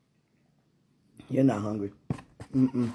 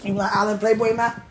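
giggling, louder and higher; laughing playful tease; 8 semitones higher, 9 dB louder than usual. Real, not acted. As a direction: laugh through the pet name. Laughing repeat of pet name.

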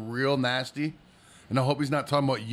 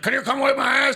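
put-on high urgent kid voice; hurried little kid pleading; imitating kid; 9 semitones higher, 5 dB louder than usual. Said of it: "But he's like".

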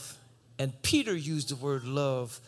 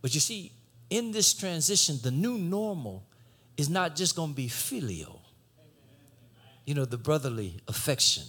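ordinary delivery

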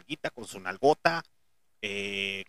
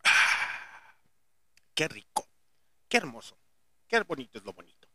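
satisfied sigh after a sip; after sipping a drink; 2 semitones lower than usual. Real, not acted. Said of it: "le da un sorbo a su bebida".

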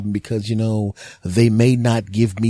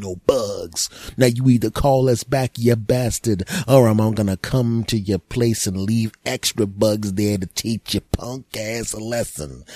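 frustrated exterminator; 3 dB louder than usual. Retold or imitated. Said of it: "growing frustration in his voice".

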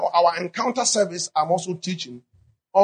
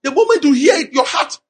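eager excitement; 4 semitones higher, 3 dB louder than usual. Acted. Preacher builds excitement, laughs.

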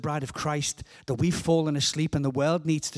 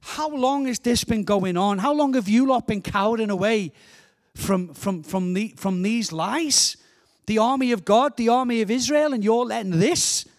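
passionate challenge, somewhat raised pitch; David; 3 semitones higher than usual. Acted. David challenges the army of Israel, indignant and passionate. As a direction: indignantly call them out, question after question. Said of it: "get passionate, it goes higher".

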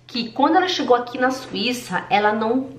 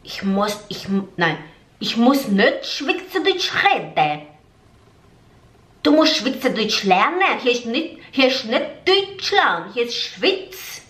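slow, firm German scolding, lightly voiced; a hint of a strict Swiss boss; stern Swiss lady; slower than usual. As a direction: lay down the law slowly, word by word. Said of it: "ela olhou pra mim e falou assim".

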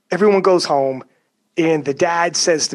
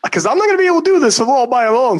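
hype talk; 8 semitones higher, 4 dB louder, faster than usual. Retold or imitated. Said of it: "So you hype 'em up".

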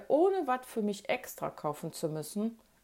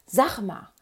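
eager, lifted phone question; bursting to share some news; excited question; 5 semitones higher, 3 dB louder, slower than usual. A narrator's reading. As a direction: ask it with lively excitement. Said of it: "fragte ich Andi ganz aufgeregt".

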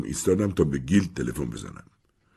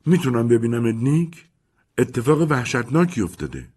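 upset Mimi; 6 semitones higher than usual. Acted. Mimi calls Nick, upset.

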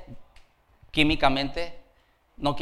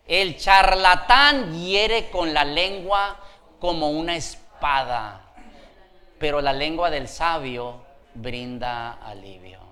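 scripture reading; slower than usual. Real, not acted. Preacher reading a proverb to the church, measured scripture reading. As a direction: recite the verse deliberately, settling down.

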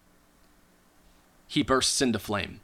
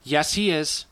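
higher, plainly audible character voice; failed whisper; 5 semitones higher than usual. Acted. Halfling informant confirming a secret, badly failed whisper. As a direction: confirm it with no attempt at hushing. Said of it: "not by any means whispering".

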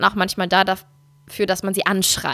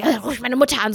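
mock reproachful retort. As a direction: throw it out as an accusation. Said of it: "so in dem Ton zu sagen ... so als Vorwurf".

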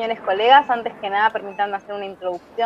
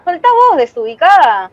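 much higher and louder, shouting back; furious shout; 4 semitones higher, 6 dB louder than usual. Acted. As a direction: scream it back at her sister. Sisters fighting over suitcase.

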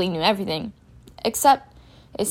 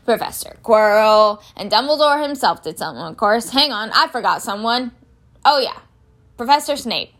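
big-man character voice, thinking aloud; groundskeeper Hagrid, recalling; 2 semitones higher, 5 dB louder than usual. Acted. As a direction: count off names, then remember one more.

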